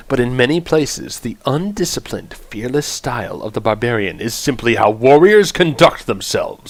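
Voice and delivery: dramatic game announcer, big opening word; announcer read. Acted. Streamer introduces the barbarian class to viewers, announcer voice.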